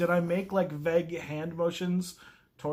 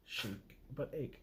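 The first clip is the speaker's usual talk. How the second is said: reading aloud; 4 semitones lower, 13 dB quieter than usual. Shown as a demonstration. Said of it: "chic does not sound like".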